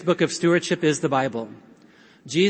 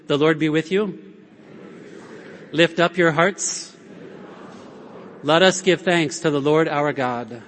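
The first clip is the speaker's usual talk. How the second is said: priest's liturgical call. Shown as a demonstration. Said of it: "or just say the parts if you would".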